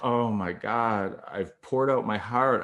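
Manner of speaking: slow, drawn-out realization; stunned dismay. Retold or imitated. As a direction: let it sink in with each slow word, mildly stunned. Alone after he rejects her.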